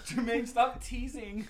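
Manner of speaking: high, slow mock pleading; drawn-out high whine, put on; a pop singer. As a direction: echo the falsetto pop-star impression. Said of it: "Fucking with his soft voice".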